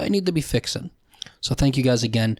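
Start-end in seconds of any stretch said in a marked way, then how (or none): 0.0-0.9 whispered under his breath; sudden whispered aside. Real, not acted. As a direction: drop to a breathy whisper to yourself. Muttering to himself mid-sentence.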